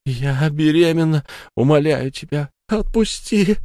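high, desperate begging; pleading. Acted. Pregnant Sara begs the ghost to let her go. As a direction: beg for your life. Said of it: "взмолилась она".

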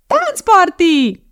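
very high, drawn-out clown squeal; loud, high party cry; cackling clown. A narrator's reading. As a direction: shriek it gleefully like a TV clown. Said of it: "kacagott egy bohóc".

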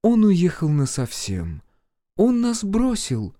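word by word, like a stranger; strange, alien voice. A narrator's reading. Mother tells son about father, alien voice. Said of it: "ответила мама чужим голосом".

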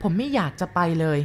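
plain reading voice

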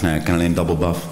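low, far-off deadpan punchline voice; a hint of a low tough-guy voice; deadpan low retort. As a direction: deliver it dry and low. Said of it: "Ik zeg".

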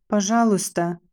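a shaky, frightened please; trembling plea. A narrator's reading. Condemned girl begs her judge, trembling and pleading. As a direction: beg for her life with a trembling voice. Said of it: "взмолилась я дрожащим голосом".

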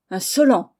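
loud, exasperated cry; angry outburst. Acted. The headmaster, pushed too far, to the boy: loud angry cry. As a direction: snap it out, pushed to the limit. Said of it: "S'écria Olnick, poussé à bout".

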